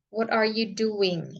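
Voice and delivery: slow wh-question, pitch easing down on "doing?"; falling question intonation. Shown as a demonstration. Teacher contrasts a what-question for students, falling on "doing?". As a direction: let "doing?" drop gently at the end. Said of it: "itu intonasinya agak turun".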